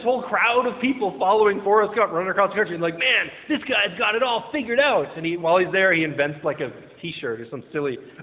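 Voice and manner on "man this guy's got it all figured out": higher, slow, drawn-out admiration; awed follower. Acted. Follower marvels at the man running across the country, awed. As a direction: play an impressed fan, stretching the words.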